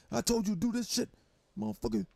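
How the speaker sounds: high and loud, furious yell at the game; crashing out at the game. Retold or imitated. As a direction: yell at the game character who won't obey. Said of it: "I crash right the fuck out".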